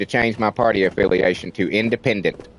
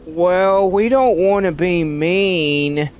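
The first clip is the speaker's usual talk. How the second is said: higher, slow mock-meek voice; mocking officials too scared of seeming racist, meek; mock timid official; 4 semitones higher, slower than usual. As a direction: sneer at the timid officials, drawn out.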